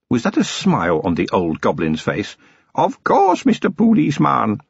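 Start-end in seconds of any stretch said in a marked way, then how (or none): 2.7-4.6 higher, otherworldly goblin voice, measured; an old goblin testing a human, calm and sly; old goblin chieftain. A narrator's reading. Old goblin challenging the policeman who wants to search, calm and sly.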